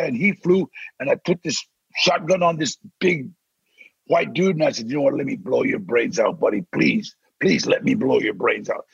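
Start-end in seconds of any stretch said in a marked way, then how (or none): 4.9-8.8 lower, hushed killer's plea; low mock-tough movie line; menacing movie thug. Acting a threat in a scene.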